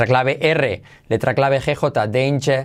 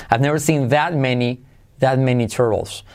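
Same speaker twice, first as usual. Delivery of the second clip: "that" leaned on before "many"; stress on THAT. Shown as a demonstration. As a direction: highlight "that" as the word replacing "so". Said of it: "muchas veces usan that". (énfasis en "that", palabra por palabra)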